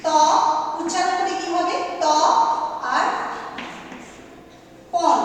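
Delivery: ত and পন spoken apart with long pauses; syllable by syllable. Shown as a demonstration. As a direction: split তপন into ত and পন, pausing between. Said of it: "কিভাবে?".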